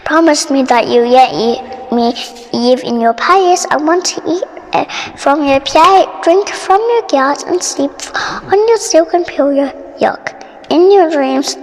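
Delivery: a hint of a croaky frog; low frog voice. The frog asking Poppy for his reward, low.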